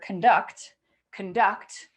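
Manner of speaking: "conduct" with stress on "duct"; second-syllable stress. Shown as a demonstration. Teacher demonstrating a stressed syllable, second syllable of "conduct" stressed. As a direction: say "conduct" with a reduced "con" and a clear "duct". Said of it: "'cause we're stressing that".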